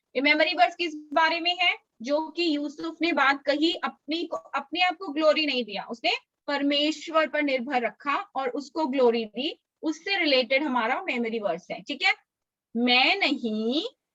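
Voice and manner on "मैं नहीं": slow, clear, deliberate dictation. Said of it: "मैं धीरे धीरे बोलूंगी".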